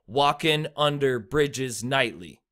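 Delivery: slow, stressing the start of "walking", "under", "bridges", "nightly"; trochaic stress. Shown as a demonstration. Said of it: "the stress comes first".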